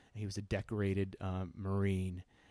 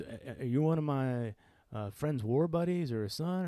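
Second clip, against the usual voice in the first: put-on Southern accent; 4 semitones higher than usual. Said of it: "I'm not gonna do the accent the whole way through".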